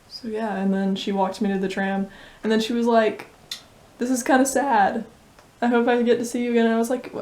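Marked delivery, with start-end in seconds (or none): 4.0-6.7 put-on a light posh British accent, a touch higher; lightly put-on posh British accent, wistful. Friend's posh British accent quoting her goodbye at the tram, lightly. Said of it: "you're doing posh British accent".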